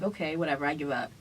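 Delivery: soft, deflated shrug; quiet, defeated whatever; resigned give up. Retold or imitated. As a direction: let it drop like you've given up. Giving up after waiting hours.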